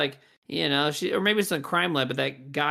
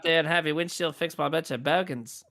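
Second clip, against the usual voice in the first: a badly faked Australian accent, lightly done; terrible Australian accent; 2 semitones lower than usual. Shown as a demonstration. Attempting an Australian accent for the podcast, badly faked. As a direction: attempt an Aussie accent and miss. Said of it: "that was a terrible accent".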